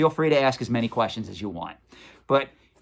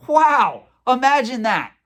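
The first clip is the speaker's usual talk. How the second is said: high, loud, exaggerated mock amazement; sarcastic; 10 semitones higher, 5 dB louder, slower than usual. Real, not acted. Mocking a stale news item.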